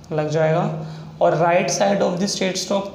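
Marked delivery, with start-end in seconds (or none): 1.2-2.9 slow. Shown as a demonstration. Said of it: "teacher repeats rule slowly".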